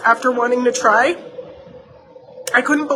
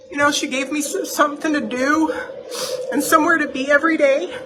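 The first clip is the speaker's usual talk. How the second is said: tearing up; 4 semitones higher, 4 dB quieter than usual. Real, not acted. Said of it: "And of course I'm tearing up".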